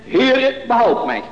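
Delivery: high on the first word, then dropping; calling out. Retold or imitated. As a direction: quote a cry for help from the pulpit. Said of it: "riep hij zeggende".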